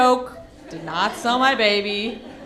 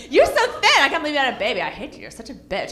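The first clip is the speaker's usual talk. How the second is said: catty jealous woman. Retold or imitated. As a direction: fake compliment turning bitter. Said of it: "they get mad at you".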